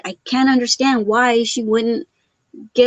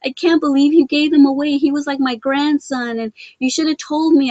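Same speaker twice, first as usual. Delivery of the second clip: higher-pitched, mildly distraught protest; retold ugly cry; 4 semitones higher than usual. Mother protesting the pug's giveaway to her daughter, mildly mock-tearful. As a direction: imitate upset pleading, pitched up. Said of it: "I was just doing the ugly cry".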